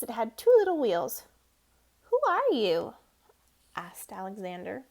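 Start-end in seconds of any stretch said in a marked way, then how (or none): 2.1-2.9 curious mouse. Acted. Alexander meets strange mouse.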